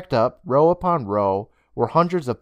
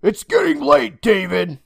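higher motherly voice; a mother's gentle nudge, voiced higher; Miss Toll; 11 semitones higher, 6 dB louder than usual. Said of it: "said Miss Toll".

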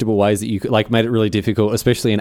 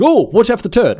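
mock warning; 11 semitones higher, 4 dB louder than usual. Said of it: "I was like".

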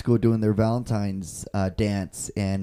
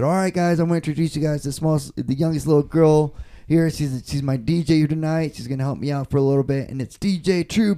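lightly re-enacted DJ introduction, pitched slightly up; introducing the DJ; 3 semitones higher than usual. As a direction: announce your little DJ to a crowd, understated. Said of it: "So I said".

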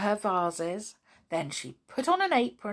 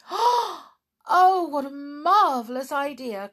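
high, loud burst of joy; delighted cry; 8 semitones higher, 8 dB louder, slower than usual. Acted. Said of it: "cried Tiptoe in delight".

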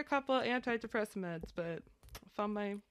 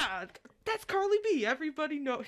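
high dad impression; 7 semitones higher, faster than usual. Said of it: "my dad's like".

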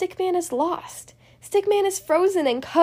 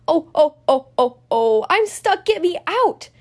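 claustrophobic panic; 4 dB louder than usual. Acted. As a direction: yelp to be let out. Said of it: "turns to a shout".

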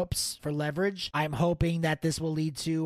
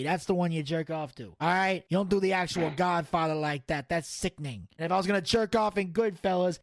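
the Don. Acted. The Don defends his movie tastes to co-host, mobster. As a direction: set him straight like a wiseguy.

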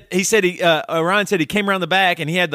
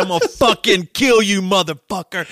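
half-raised, mock furious yell; retold screaming threat; 3 semitones higher, 3 dB louder than usual. Drummer threatening the pinned bass player, mock screaming. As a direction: act out an enraged threat, voice climbing. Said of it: "he was just screaming".

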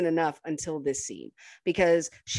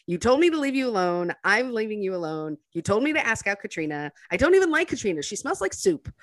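imitating Bleecker; 4 semitones higher, faster than usual. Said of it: "He's just like".

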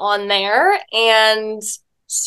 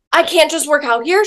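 high, on the verge of tears; tearful protest; 6 semitones higher than usual. Retold or imitated. Woman turned away at the gym, voice near tears. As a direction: plead like you're about to cry. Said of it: "almost started to cry".

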